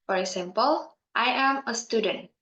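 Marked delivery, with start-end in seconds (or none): 1.2-2.3 statement tune, falling on "student"; falling intonation. Shown as a demonstration. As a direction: drop the tone at the end on "student". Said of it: "That drops in a, the, in the end".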